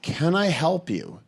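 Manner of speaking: "Can I help you?" slowly, like an offer you can't keep; ominous offer. Shown as a demonstration. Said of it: "is not good customer service".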